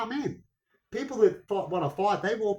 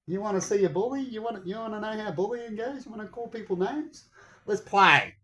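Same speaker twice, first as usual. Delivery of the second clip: higher, mocking bully challenge; taunting challenge; 6 semitones higher than usual. Man to online bullies, switching to a taunting challenge. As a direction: goad them into a fight. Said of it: "And then I went".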